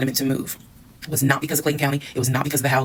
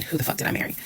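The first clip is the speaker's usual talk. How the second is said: whispered aside in disbelief; under the breath, stunned at her husband; muttered aside; 5 dB quieter than usual. Real, not acted. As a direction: drop your voice and ask the audience.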